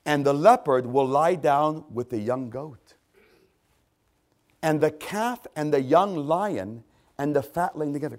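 emphatic, deliberate verse reading; measured scripture reading. Real, not acted. Preacher reading the prophecy of peace, measured and emphatic. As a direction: read out each animal with emphasis. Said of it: "I'm gonna read them slowly".

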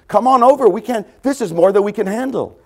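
high, loud call to the other boat. Acted. Fishermen calling partners to come, loud. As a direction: shout across the water for help.

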